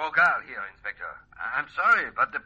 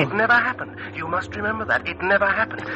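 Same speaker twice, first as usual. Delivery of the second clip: insistent, droning "never happened"; hypnotic command; 4 semitones higher than usual. Acted. Hypnotist drills the false memory into the patient, fading to a whisper.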